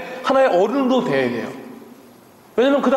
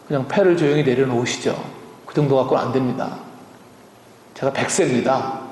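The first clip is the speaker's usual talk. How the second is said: understated Abraham reply; 8 semitones lower than usual. Acted. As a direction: put on a low, restrained old man's reply. Acting Abraham's answer to a boast. (낮게 가라앉힌 아브라함 흉내)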